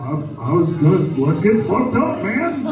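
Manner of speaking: put-on easy drunk buddy voice pitching up on the invite; Seth Rogen impression. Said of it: "I heard your Seth Rogen impression".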